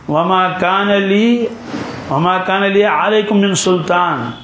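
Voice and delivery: slow, drawn-out recitation of وما کان لی; slow Quranic recitation. Acted. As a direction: intone the verse slowly and evenly. Quran verse recited in lesson.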